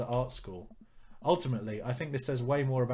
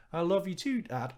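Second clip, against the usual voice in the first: put-on dad's voice nudged higher for a teen girl; daughter voice attempt; 6 semitones higher than usual. Dad reading his daughter's line, lightly raised teen voice. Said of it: "I don't think I can do her voice like that".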